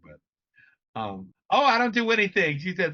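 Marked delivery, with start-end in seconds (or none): 1.5-2.6 high, louder mock Jamaican accent; bad Jamaican accent. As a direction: imitate an elderly mother's Jamaican accent, badly. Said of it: "I have a really bad, um, Jamaican accent".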